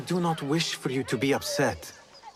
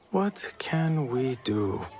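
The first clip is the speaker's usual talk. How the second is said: slow pondering; much slower than usual. Acted. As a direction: draw out each word slowly. Musing aloud, repeated more slowly.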